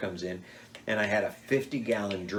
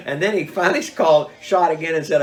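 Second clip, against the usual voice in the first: laughing through words; 6 semitones higher, 10 dB louder than usual. Real, not acted. Still laughing while telling.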